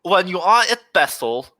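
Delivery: put-on German accent. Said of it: "The speaker is trying to do a German accent".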